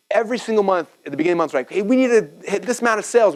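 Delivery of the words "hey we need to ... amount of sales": higher-pitched retold team rallying; rally the team around a target; excited. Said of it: "We got all excited".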